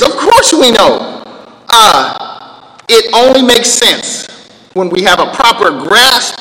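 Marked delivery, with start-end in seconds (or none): 0.0-1.2 slow, laughing Of course we know; stress on course. Shown as a demonstration. Preacher to congregation, slow laughing emphasis. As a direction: spell out "Of course we know" to a dim listener. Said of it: "It's, it's idiot, cloth ears".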